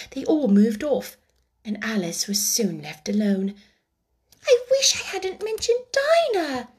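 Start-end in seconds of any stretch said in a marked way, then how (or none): 4.5-6.7 a touch of sadness, high and wistful; lightly regretful girl; melancholy. A narrator's reading. Alice regretting to herself, in a mildly melancholy tone. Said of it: "in a melancholy tone".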